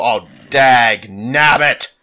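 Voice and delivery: slow drawn-out mock cartoon cry of dag nabbit; hammed-up old prospector, stretched out; cartoon old-timer. Gamer cursing a setback, in a slow cartoon old-timer voice. Cartoon exclamation while gaming.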